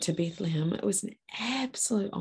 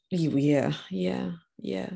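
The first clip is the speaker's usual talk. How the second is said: ordinary talk, nothing marked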